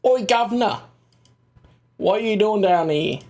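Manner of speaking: hammed-up British "governor" accent. Streamer riffs on British TV accents, mock British accent. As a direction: put on a cheeky British accent. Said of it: "British accents in a T V show".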